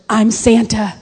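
loud, deliberate declaration building to a shout; emphatic dad. Retold or imitated. Husband confessing to his scared daughter, loud and emphatic. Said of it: "he locks eyes with her and he goes".

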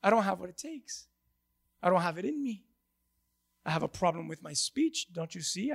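lightly voiced insecure Moses; whiny Moses. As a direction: sulk and plead like an unsure man. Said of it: "Moses stands before him and says".

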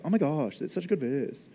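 lightly voiced Valley Girl gushing; a hint of gushy Valley Girl. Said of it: "In my Valley Girl voice".

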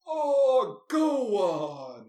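loud, hammed-up wail of disbelief; over-the-top reaction. Businessman reacting to the challenger's brother, wildly over the top. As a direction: belt it out in mock exaggerated scorn. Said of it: "the most over-the-top reaction".

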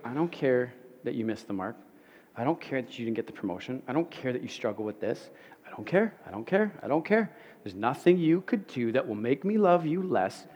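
God reassuring the listener, hushed and tender; gentle whisper-like voice. Retold or imitated. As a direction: speak softly close to the ear. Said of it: "whispering in your ear".

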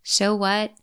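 "So what?" with a rise, shrugging it off; dismissive so what. Shown as a demonstration. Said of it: "Try it out. See how it works for you".

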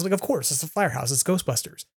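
soft, unimpressed aside; matter-of-fact dismissal. Acted. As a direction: drop the voice, state the obvious. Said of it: "I don't necessarily go".

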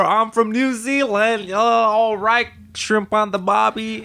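high, drawn-out, hammed-up Aussie accent; mock Australian accent. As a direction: exaggerate a terrible Australian accent, high and slow. Mocking fake Antipodean accent.

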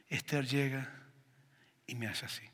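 whispered; hushed storytelling. A narrator's reading. Preacher whispers as his daughter reaches to hug him. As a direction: breathe it out as a whisper.

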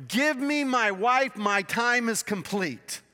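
eager insistent demand. Acted. Jacob demanding his wife.

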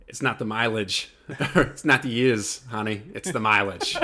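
attempted Boston accent, laughing. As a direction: loose Boston vowels, half laughing. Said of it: "quote I just attempted in a Boston accent".

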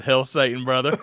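eager reply. Retold or imitated. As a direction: throw it back with gusto. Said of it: "I said".

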